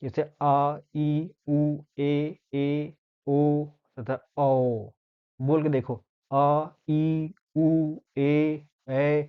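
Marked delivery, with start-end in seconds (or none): 0.4-4.9 each of आ, ई, उ, ए, ओ, औ held long; long vowels. Shown as a demonstration. Teacher listing long vowels, each drawn out. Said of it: "दोगुना समय लगता है". 6.3-9.2 आ, ई, उ, ए, ऐ each stretched out; long vowels. Shown as a demonstration. Teacher having learners try long vowels, each drawn out. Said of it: "थोड़ा time लग रहा है मुंह को".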